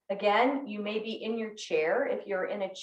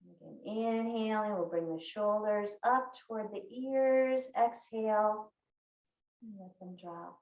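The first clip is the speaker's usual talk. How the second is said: guided breathing; 4 dB quieter than usual. Real, not acted. Yoga teacher guiding shoulders up and down with the breath, soothing. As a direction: ease them gently through each breath, with pauses. Leads slow breathing exercise.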